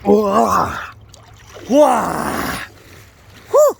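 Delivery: high exhilarated whoas; excited whoa. Real, not acted. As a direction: ride the rush of the cold. Getting out of icy water.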